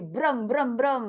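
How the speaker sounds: spoken "brem brem brem" engine noise; mimicked motor sound in repeated brems; jet ski imitation. Shown as a demonstration. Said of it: "Gimana bunyinya jet ski kira-kira".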